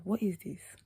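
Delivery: hushed "what is this"; whispered thought. Retold or imitated. Thinking to herself about the staring eyes, whispered. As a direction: whisper it to yourself.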